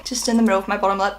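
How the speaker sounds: talking with the hiccups; words broken by hiccups. Real, not acted. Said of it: "I have the hiccups".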